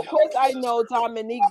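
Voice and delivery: ordinary talk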